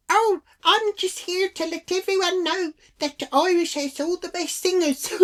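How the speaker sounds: very high-pitched mock Irish voice; hammed-up, badly faked Irish accent. Irish lady defending Irish singers, bad Irish accent. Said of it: "Can't do the accent".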